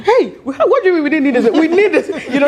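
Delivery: high, laughing disbelief; laughing protest. Real, not acted. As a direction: protest through real laughter. Laughing protest at husband's remark.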